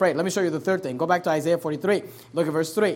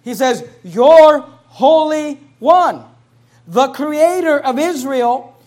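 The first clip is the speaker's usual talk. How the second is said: much louder, slow, drawn-out proclamation; preaching at full force; 5 semitones higher, 9 dB louder, slower than usual. Acted. Preacher reading Isaiah to congregation, slow and loud. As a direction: ring it out like a pulpit declaration.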